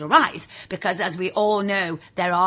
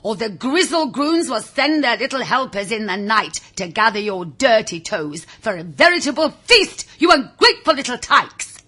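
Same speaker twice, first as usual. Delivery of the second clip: stern warning; 4 dB louder than usual. Retold or imitated. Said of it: "would be the cry".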